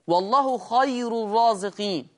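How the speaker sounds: الرازقين with a heavy, emphatic r, recited. Shown as a demonstration. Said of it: "راء مضمومة ... مفخمة".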